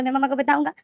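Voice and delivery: put-on weepy childish complaint, rising in pitch; crying child. A narrator's reading. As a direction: whimper it out like a hurt little kid. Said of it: "लेनदेन यही बोल रहा था और रोए जा रहा था".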